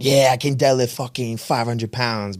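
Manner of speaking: mock gloating. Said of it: "they gloat".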